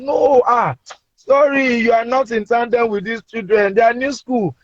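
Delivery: high-pitched imitation of wife; lightly voiced wife correcting her husband; wife explaining. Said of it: "My wife then came in".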